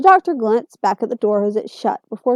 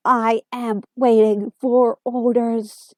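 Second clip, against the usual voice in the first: Dalek voice; much slower than usual. Acted. Dalek speaking in a slow monotone.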